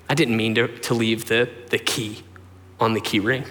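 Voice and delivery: low, halting, gentle apology; imitated sincere apology. Hurt mom apologizes to son for directions, subdued sincerity. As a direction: gently act out a hurt mother owning her mistake.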